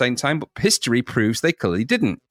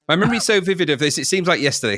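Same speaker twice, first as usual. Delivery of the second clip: faster, more lively reading; livelier reread; 4 semitones higher, faster than usual. Shown as a demonstration. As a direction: read it again with more life. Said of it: "Actually, I'll say that again".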